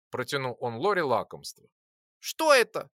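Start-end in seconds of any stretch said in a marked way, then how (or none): 2.2-2.9 high, loud tiny voice; squeaked question. A narrator's reading. Little flyer eyeing the candy, high squeak. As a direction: squeak it suspiciously. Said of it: "пропищала маленькая летунья".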